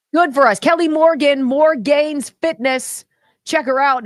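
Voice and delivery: loud, high excited plug; excited shoutout. Real, not acted. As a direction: hype her up.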